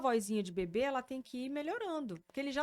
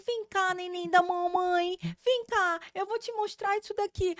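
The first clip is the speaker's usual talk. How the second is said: put-on high baby talk; 9 semitones higher, 8 dB louder than usual. Shown as a demonstration. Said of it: "tem um termo em inglês pra esse tipo de voz".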